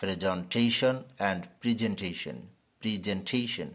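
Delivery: "presentation" said prez-en-TAY-shun; slow model of "presentation"; correct presentation. Shown as a demonstration. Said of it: "এই শব্দটির সঠিক উচ্চারণ হবে".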